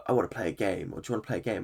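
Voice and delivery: hint of the horror-film puppet's menace; Jigsaw impression. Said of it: "Who is this jigsaw motherfucker?".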